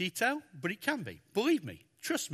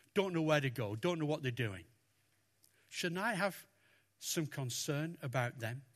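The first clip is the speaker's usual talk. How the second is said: gentle God; 2 semitones lower, 5 dB quieter than usual. Acted. God's gentle reply to Jonah.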